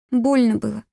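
put-on high, hurt child's voice; small girl's voice, pitched well up; little girl. A narrator's reading. Wounded little girl answering her kidnapper, high child voice.

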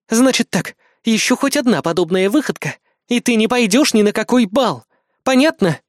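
high, firm female warning; stern Kri. Acted. Кри строго предупреждает мальчика.

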